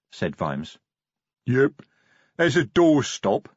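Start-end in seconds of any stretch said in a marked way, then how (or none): 1.5-3.5 rumbling troll. Acted. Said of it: "rumbled Detritus".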